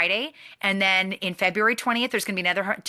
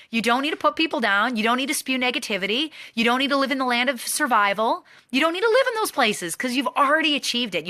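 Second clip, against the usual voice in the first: higher, fervent, climbing each line; preaching build; 4 semitones higher than usual. Real, not acted. Coach rallying the team against negativity, fervent and higher.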